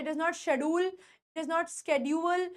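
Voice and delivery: it is not schedule said very slowly; slow model sentence. Shown as a demonstration. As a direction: spell it out for learners. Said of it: "demo sentence". (धीमे बोला वाक्य)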